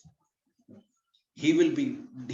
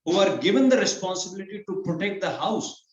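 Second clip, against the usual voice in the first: put-on a touch of a higher, indignant young brahmin, slowing down; indignant brahmin boy; 4 semitones higher, 3 dB louder than usual. Brahmin boy scorns kshatriyas eating with brahmanas, lightly indignant. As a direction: lightly voice the boy's outrage at the kings.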